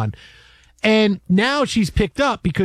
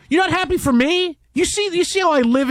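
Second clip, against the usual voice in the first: mock hurt; 9 semitones higher than usual. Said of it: "I go".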